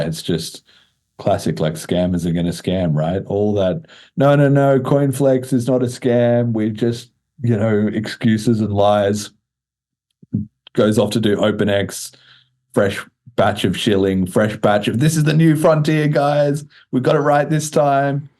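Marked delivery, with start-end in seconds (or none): 4.2-9.3 mock scammer. Host mocking an exchange founder's excuses, mock protest. 15.0-18.3 higher, hyped-up sales voice; mock scammer pitch. Host mocking a scammer hyping his new exchange, mock sales pitch.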